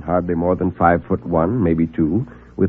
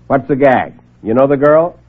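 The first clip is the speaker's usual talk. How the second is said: suspicious; 4 semitones higher, 4 dB louder than usual. Acted. Suspicious reporter.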